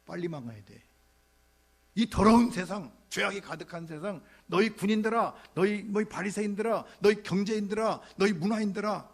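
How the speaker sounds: loud, high cry against a corrupt world; preacher voicing John condemning soldiers and Pharisees; denouncing shout. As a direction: call out each group like a fiery prophet.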